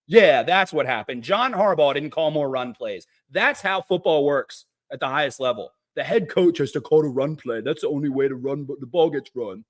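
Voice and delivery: low mock-serious explaining voice; sarcastic agreement. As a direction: explain the obvious with heavy sarcasm. Sarcastically agreeing with the mocked critics.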